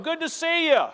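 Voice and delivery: high-pitched, cheery acted greeting; friendly greeting. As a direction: greet a church member brightly, pitched high. Models a friendly church greeting.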